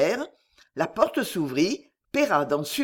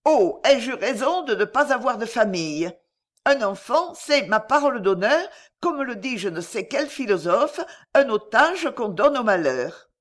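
wry bitter man; 4 semitones higher, 3 dB louder than usual. Acted. Corentin's bitter musing.

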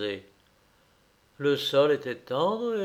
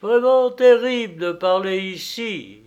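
high, loud bird squawk; storybook beak echo, pitched up; yelping bird; 6 semitones higher, 8 dB louder than usual. A narrator's reading. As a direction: yap it back like a bird. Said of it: "glapit le bec d'oiseau".

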